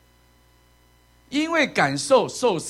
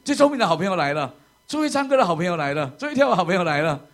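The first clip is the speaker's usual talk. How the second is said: quick, lightly raised praising list; playful praise; 3 dB louder, faster than usual. Retold or imitated. 对孩子快速夸奖，热情地说好朋友来了. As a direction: hype up a friend, rattling off compliments fast. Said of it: "我就说".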